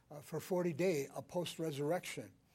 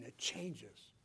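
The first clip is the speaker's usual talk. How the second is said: ordinary talk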